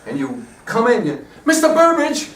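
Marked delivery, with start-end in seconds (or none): 1.4-2.3 higher and louder, calling out "Mister Burbage!" across the stage; loud, high melodramatic entrance call; big stage calling. Shown as a demonstration. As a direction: hail him from offstage, full melodrama. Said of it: "that's how you're gonna come in".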